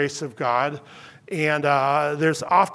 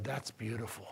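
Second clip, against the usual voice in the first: much softer and lower, nearly breathless; hushed, tearful; 7 semitones lower, 18 dB quieter than usual. Retold or imitated. Dying friend answering the pastor, hushed and moved. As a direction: barely voice it, moved.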